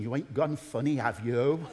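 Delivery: low-pitched Wiltshire countryman's voice; rich Wiltshire accent. Retold or imitated. Wiltshire caller replying after a pause on the phone, rich Wiltshire accent. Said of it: "he said in a rich Wiltshire accent".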